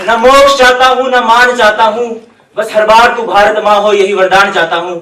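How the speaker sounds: measured, declaimed patriotic verse; solemn stage recital of a poem; poem recitation. Acted. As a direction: recite it as verse, line by repeated line. Recites patriotic verse before his speech.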